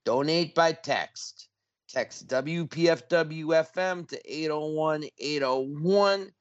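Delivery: measured, deliberate pledge instructions; nice and slow. Shown as a demonstration. Host repeats text-donation details for listeners, nice and slow. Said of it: "so it's nice and slow".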